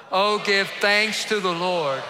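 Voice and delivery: loud, slow proclamation. Shown as a demonstration. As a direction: call it out fuller. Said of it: "Say it louder".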